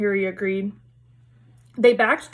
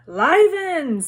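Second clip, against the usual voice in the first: higher, louder fake surprise; hammed-up startled cry; mock astonishment; 7 semitones higher, 4 dB louder than usual. Patrick's fake astonished jump.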